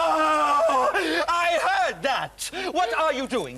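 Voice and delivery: high, loud squeaky alien; squeaky angry puppet. Acted. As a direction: burst in as an indignant creature. Third puppet bursts in.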